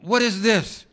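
grieving son confronts God after his mother's death; fussing at God. Retold or imitated. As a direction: cry out in stunned protest. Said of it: "I fussed at God".

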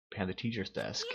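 urgent hushed shout; whisper-shout. Acted. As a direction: shout it but keep it hushed. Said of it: "Not gonna risk screaming".

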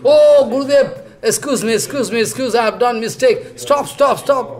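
high, hurried begging with nervous laughs; frantic pleading. Acted. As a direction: beg the guru to stop, half laughing. Kauravas begging Balaram to stop.

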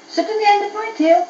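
high, loud, coaxing dragon; sweetly bait the goblin closer; luring dragon. A narrator's reading.

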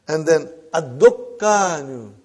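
ad-dukkanu, slow with a doubled k; slow Arabic demo. Shown as a demonstration. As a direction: model ad-dukkanu for the class. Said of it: "dukkan you say in Urdu".

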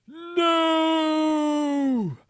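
high, loud horrified scream; piercing cry of refusal. Acted. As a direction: shriek it in horror. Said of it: "I screamed".

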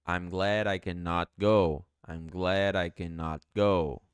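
I'm glad I cannot go slow, glad I joined; slow linked demo for learners; linked model. Shown as a demonstration. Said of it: "juntar com I".

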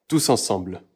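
ordinary delivery

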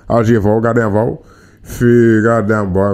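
put-on Birmingham, Alabama drawl; Alabama accent. Shown as a demonstration. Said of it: "I can get Birmingham, Alabama down easily".

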